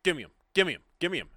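short, repeated demands, half-yelled; mild mock yelling. Kid demanding his pills back, mild mock yell. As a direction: imitate yelling without full volume. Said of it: "he just starts yelling".

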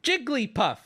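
Jigglypuff said as Jig-lee-puff; three syllables. Shown as a demonstration. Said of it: "She says her name with three syllables".

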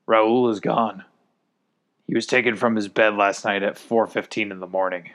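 a lightly strained, weary delivery; strained, tired voice. Acted. Declan the Beta leader reporting Raoul gone, strained and tired. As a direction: sound worn out but holding it together. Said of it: "spoke with a strained, tired voice".

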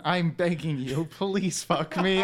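slow, pleading porn-star plea; mock porn voice. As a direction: beg slowly like a porn star. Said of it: "Big Calendar's my porn name".

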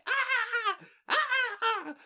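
high shrieks of panic; screaming. A narrator's reading. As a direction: shriek in terror from a treetop. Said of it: "bare og skreg". (høje panikskrig)

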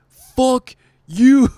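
comic screaming at the host from the mic, hammed-up scream; mock screamed fuck you. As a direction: scream it as the final blow. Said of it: "Loses his shit on stage".

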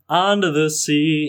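slow sung Jamaican accent. Shown as a demonstration. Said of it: "it's not very good".

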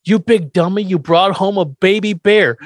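a hint of a cranky old man; playing Grandpa, scolding Herman; quoting Grandpa. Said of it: "But Grandpa goes".

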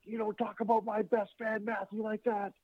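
a hint of an angry wrestler defending his fan; retold angry defense. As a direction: stand up for your little fan, mock stern. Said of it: "Owen's pissed".

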